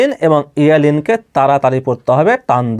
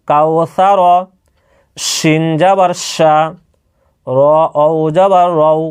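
slow, even-toned recitation of letters; measured spelling drill; 2 semitones higher, much slower than usual. Shown as a demonstration. Teacher models Arabic letter spelling for learners, measured drill. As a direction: recite each syllable evenly, with pauses between. Spelling words, then pronouncing them.

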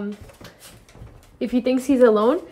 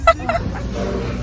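breathy giggle; high airy laugh; 5 dB quieter than usual. Real, not acted. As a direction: burst out giggling. Laugh after the echo.

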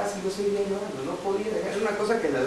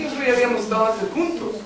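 preaching at full force; 3 semitones higher than usual. Acted. Predicación con fuerza.

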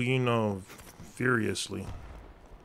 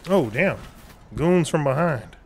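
loud, high alarmed call; alarmed shout; 5 semitones higher, 5 dB louder than usual. Real, not acted. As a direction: warn the team, loud and urgent. Ambushed from behind in game.

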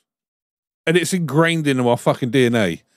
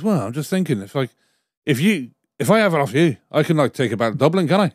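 imitating a Dubliner, lightly accented; bad Irish accent. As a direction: put on a dodgy Irish accent. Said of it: "That is the worst Irish accent".

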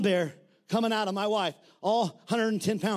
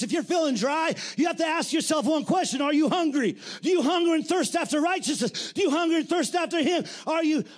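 full-force preaching; 4 semitones higher than usual. Acted. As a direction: pound the refrain.

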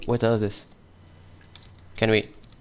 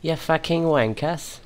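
slow, higher British sneer; British accent; 6 semitones higher, 3 dB quieter than usual. Pretend. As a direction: drag out the insult in a British accent. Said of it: "If that's what a British accent sounds like".

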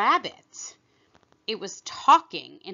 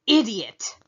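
impatient; 7 dB louder than usual. Acted. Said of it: "tossing her head impatiently".

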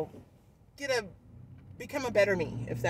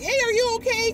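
higher, louder shout across the road; retold yell; 13 semitones higher, 9 dB louder than usual. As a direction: call out over traffic. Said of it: "yelling at me".

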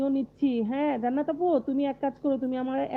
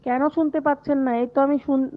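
louder so the stream can hear; raised voice; 3 semitones higher, 6 dB louder than usual. Real, not acted. To viewers who can't hear her, raised voice. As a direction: push the voice out so listeners hear.

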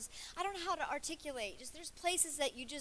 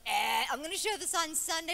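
teasing; 4 semitones higher, 8 dB louder than usual. Retold or imitated. Pastors teasing about gross picture.

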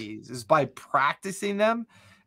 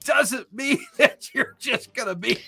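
hammed-up backwoods rambler; 6 semitones higher than usual. Game player voices Elof rambling about the woods, hammed-up backwoods character.

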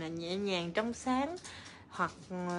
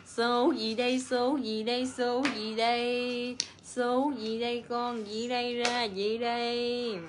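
bingo caller. Pretend. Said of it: "Như kêu lô tô".

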